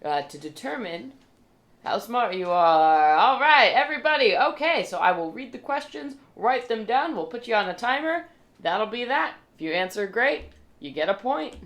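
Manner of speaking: high, bright MC voice booming a welcome; game show host. Acted. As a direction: announce it like a pub quiz MC. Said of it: "He's like".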